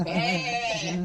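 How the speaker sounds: goofy farm-animal bleat; drawn-out comic bleat; imitated animal bleat. Shown as a demonstration. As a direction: bleat like the whole herd. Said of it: "And they just all".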